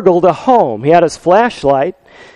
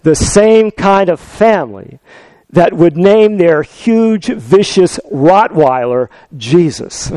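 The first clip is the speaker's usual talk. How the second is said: glaring retort; slower than usual. Retold or imitated. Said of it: "The parrot glared at him and said".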